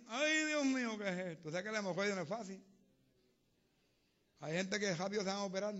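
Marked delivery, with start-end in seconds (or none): 0.1-1.5 retold cry.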